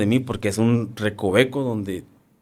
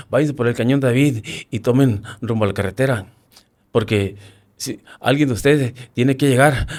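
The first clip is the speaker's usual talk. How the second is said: raised urgent commands, pushing the men to go; rally them toward the canyon, louder at the climax; retold radio corporal giving urgent orders; 4 semitones higher, 4 dB louder than usual. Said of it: "así con ese tono".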